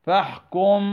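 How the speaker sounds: فاحكم with the meem hidden into the baa, slow and nasal; ikhfaa recitation. Shown as a demonstration. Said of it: "فاحكم على الباء". (إخفاء شفوي في فاحكم)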